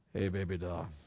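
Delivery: gentle, soft, low voice. Showing how to answer at home by lowering your voice, lowered soft voice. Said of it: "you can lower your voice".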